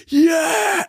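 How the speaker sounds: high cheering yell at a touchdown; mock cheer. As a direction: whoop it up like a football crowd. Crowd cheering at Super Bowl.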